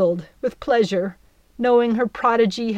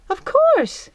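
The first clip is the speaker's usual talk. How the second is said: very high, louder eager reply; eager fairy; 6 dB louder than usual. Acted. Belle accepts the net, high and eager. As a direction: jump at the offer.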